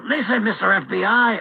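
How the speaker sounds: lightly put-on Mexican accent. Addressing the FBI as an exasperated commentator, light Mexican accent. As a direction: slip into a hint of a Mexican accent. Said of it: "why am I doing this Mexican voice".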